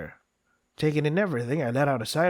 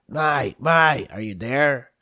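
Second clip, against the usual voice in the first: calling out; 6 dB louder, slower than usual. Acted. Calling out her name.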